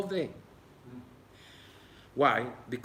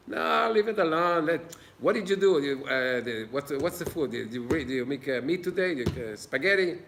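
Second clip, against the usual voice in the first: dismissive husband; 2 semitones higher than usual. Retold or imitated. Husband brushing off his wife's questions about his day, dismissively. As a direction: wave her questions away impatiently.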